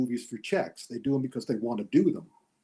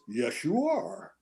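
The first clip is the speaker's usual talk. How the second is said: deadpan answer; 3 semitones higher, 5 dB quieter, slower than usual. Retold or imitated. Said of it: "And the answer is".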